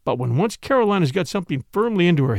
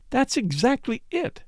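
triumphant; 9 semitones higher, 4 dB quieter than usual. Acted. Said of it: "cried Caroline triumphantly".

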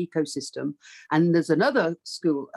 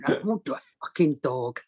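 John Sessions refusing; 4 semitones lower than usual. Retold or imitated.

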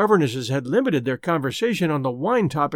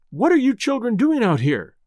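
demanding; 5 semitones higher than usual. Acted. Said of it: "demanded Missus Quabari".

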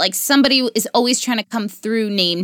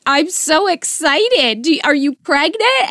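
excited mom; 6 semitones higher, slower than usual. Retold or imitated. Mom voiced gushing over news.

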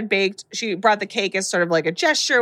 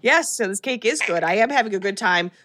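forced cheer. Retold or imitated. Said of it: "she's trying to".

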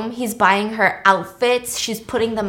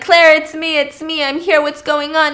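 higher, anxious calling out; acted urgency; 6 semitones higher, 5 dB louder than usual. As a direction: imitate a worried rescuer announcing himself. Acting his rush back to her.

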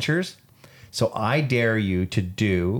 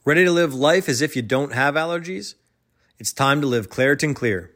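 upbeat sponsor-read delivery; 4 semitones higher than usual. Acted. Podcast host selling allergy relief, ad read. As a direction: pitch the product to listeners.

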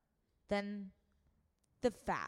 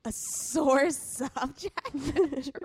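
incredulous; 5 semitones higher, 6 dB louder, slower than usual. Real, not acted. Incredulous repeat of odd phrase.

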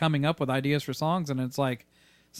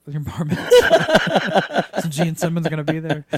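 amused disbelief; 6 dB louder, slower than usual. Real, not acted. Mocking Aaron's bar mitzvah invite.

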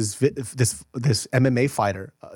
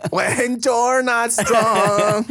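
put-on slow, higher Cholo accent singsong; 8 semitones higher, much slower than usual. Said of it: "with the Cholo accent".

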